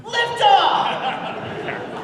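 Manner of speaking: high, drawn-out call; Space Jam character line. Acted. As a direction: stretch it out, high and slow.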